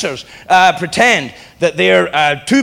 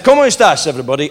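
fake Latino accent; 3 semitones lower, faster than usual. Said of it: "tried to do a Latino accent".

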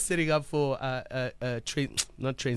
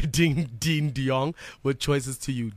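back-announcing radio voice; 5 semitones lower than usual. Real, not acted. Radio host back-announcing the songs just played, in a put-on radio voice. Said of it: "that back announced that way".

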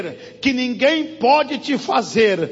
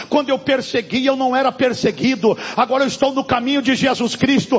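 loud declaration of refusal; loud, defiant sermon cry; defiant preaching; 4 dB louder, faster than usual. Acted. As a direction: proclaim it like Paul defying his accusers. Preaching Paul's defiance loudly.

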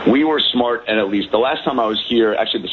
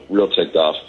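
ordinary talk, nothing marked

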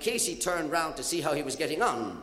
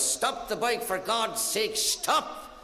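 high-pitched panicked shout; mock roaring; 6 semitones higher, much slower than usual. Murphy roaring from the back of the bike, high acted shout. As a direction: yell it high, rising to a sharp final "stop". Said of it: "the roars of Murphy ... shouting, he was".

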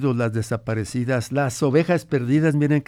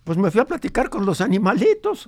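lightly voiced grandfather, a bit higher; old grandfather; 7 semitones higher than usual. Grandfather recalls his ranch for the radio host, lightly voiced old man. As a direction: tell it as the old abuelo remembering his ranch.

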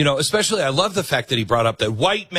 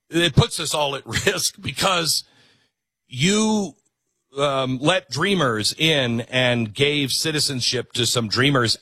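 mock Michelle Obama. Host mocking Michelle's speech, laughing mock voice. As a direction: parody her earnest warning with a laugh.

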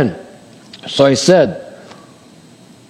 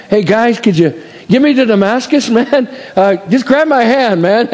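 higher, laughing casual plea; blind Paul; 5 semitones higher than usual. Pretend. Blinded Paul asking his companions for help, higher laughing voice. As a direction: play it as a helpless blind guy, amused.

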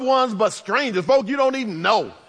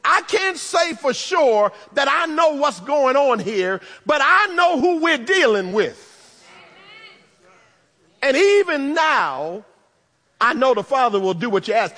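Martha's hopeful heart; 3 semitones higher than usual. Acted. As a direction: voice a sister clinging to hope. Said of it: "something in her heart that tells her".

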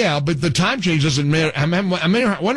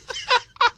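high laugh. Real, not acted. Host laughs.

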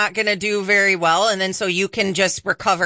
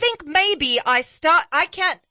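put-on higher, muddled British-Australian accent; half Australian, half British; 6 semitones higher than usual. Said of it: "half Australian, half British accent".

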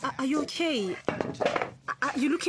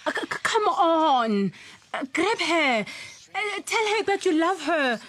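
urging the TV; 3 semitones higher, 4 dB louder than usual. Acted. Son urging TV couple.

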